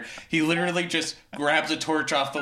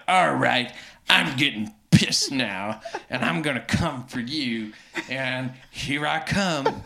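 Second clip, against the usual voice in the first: low, softer villain threat, lightly acted; lightly voiced menacing Count; 4 semitones lower, 4 dB quieter than usual. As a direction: make a low, unhurried threat. Voicing the unbothered Count's threat.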